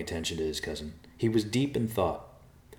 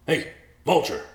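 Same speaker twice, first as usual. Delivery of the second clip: much louder, higher shout up to the tree; calling out; 9 semitones higher, 7 dB louder than usual. Acted. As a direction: hail the vulture from below. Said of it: "Riverpaw called".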